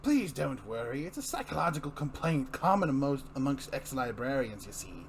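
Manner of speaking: a lightly voiced, oily Joker making a smug sales pitch; a smirking villain, just hinted in the voice. Joker mocks Gordon over Barbara.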